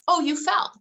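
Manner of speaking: lifted, matter-of-fact mom voice; name the fall to the child, lightly; calm mom stating fact. Retold or imitated. Mother to her fallen child, lifted calm voice. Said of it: "I'll state the fact".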